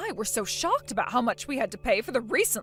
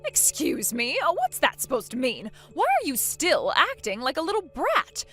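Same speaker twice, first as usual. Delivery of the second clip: indignant scolding; 4 dB louder than usual. Acted. Mother-in-law demanding obedience, indignant and louder. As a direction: put the brat in her place.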